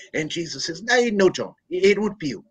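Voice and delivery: high, sing-song Irish brogue sermon; Irish priest preaching. Retold or imitated. Irish priest tells the congregation the Last Supper, in a hammed-up brogue. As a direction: preach in an exaggerated Irish lilt. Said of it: "there's an old Irish priest".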